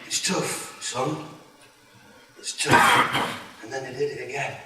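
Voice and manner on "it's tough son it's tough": whispered. Retold or imitated. Emotional reply to son.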